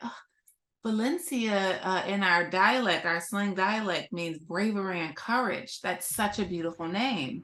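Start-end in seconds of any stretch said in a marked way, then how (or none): none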